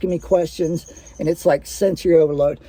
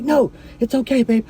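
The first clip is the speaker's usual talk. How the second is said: higher-pitched imitation of a panicked partner; mock-panicked soothing in a higher voice; imitated panic; 5 semitones higher than usual. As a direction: retell her urgent pleading, pitched up. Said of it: "like, in a panic".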